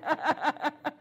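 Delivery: real giggle after mimicking someone; real amused chuckle. Real, not acted. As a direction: chuckle at your own impression. Amused after imitating the laugh.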